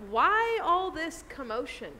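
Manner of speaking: slow, lifted, mock-puzzled question; candid puzzlement. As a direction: imitate someone candidly baffled by the fuss. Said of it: "it's almost like this candid".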